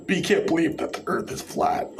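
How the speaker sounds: mocking the flat-earthers, breathy at the end; condescending parody of their logic; sarcastic mock quote. Vlogger mocks flat-earthers' reasoning in sarcastic voice. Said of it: "I'm being sarcastic".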